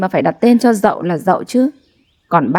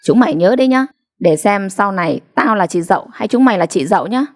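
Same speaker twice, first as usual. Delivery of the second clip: angry warning. Acted. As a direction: warn them through anger. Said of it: "Dậu tức giận điểm mặt". (giọng tức giận đe dọa)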